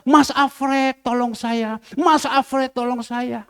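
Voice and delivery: imitated repeated appeal for help; mock cry for help. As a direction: call out names as if begging for rescue. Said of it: "Dia tidak teriak".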